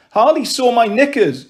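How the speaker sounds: put-on a touch of a child's wail; mild wail. A narrator's reading. Embarrassed girl complaining to her mum, mild wail. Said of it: "I wailed".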